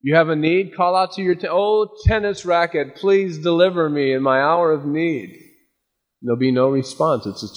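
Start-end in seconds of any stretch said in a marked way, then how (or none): 1.5-5.4 hammed-up pleading to a racket; overblown, higher plea; mock prayer. Worshipper mockingly praying to his tennis racket, higher.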